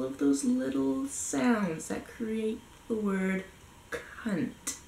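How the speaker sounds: drawn-out, relished words ending on a whispered "cunt"; playing with the sounds. Shown as a demonstration. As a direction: savour the sounds slowly up to a hushed "cunt". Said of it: "fun to play with all".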